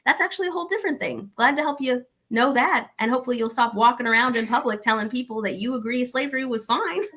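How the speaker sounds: high, quick, mocking cheer; bright sarcasm to the caller; sarcastic reply. Host sarcastically answering the caller who defended slavery. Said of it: "And it's like".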